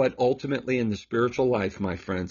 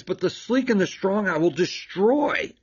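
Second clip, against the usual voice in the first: higher, rising on destroy as if baffled; puzzled emphasis; 6 semitones higher than usual. Shown as a demonstration. Priest pointing out the odd verse to viewers, puzzled rising emphasis. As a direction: lift it like a strange surprise. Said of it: "What is up with that?".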